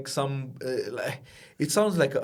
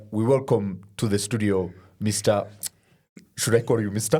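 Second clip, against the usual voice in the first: put-on Ugandan accent; 3 semitones lower than usual. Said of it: "and his accent".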